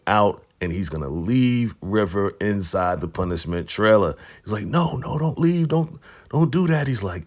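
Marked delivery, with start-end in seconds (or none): 4.7-6.9 high pleading, voice pitched way up; squeaky retold panic; mock desperate begging. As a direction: beg him not to go, half joking. River begs Peter not to leave.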